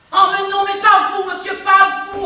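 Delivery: aunt protesting into the phone; flustered protest. Acted. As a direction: quickly tell the caller it isn't him.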